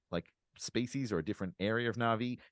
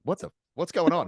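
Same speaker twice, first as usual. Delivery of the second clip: mock slipping Brooklyn-Australian accent, higher and louder; 6 semitones higher, 5 dB louder than usual. Podcaster mocking the voiceover's wobble, Brooklyn-to-Australian accent. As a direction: imitate a voiceover sliding between Brooklyn and Australian. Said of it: "his accent going from Brooklyn to Australian a lot".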